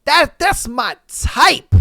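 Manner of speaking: high, loud swooning delight; smitten. Retold or imitated. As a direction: gush over the girl you like. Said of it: "You're like".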